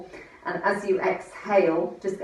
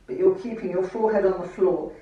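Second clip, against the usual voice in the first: muffled; 3 dB louder than usual. Real, not acted. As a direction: voice muffled into the mat. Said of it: "I'm talking into the mat here".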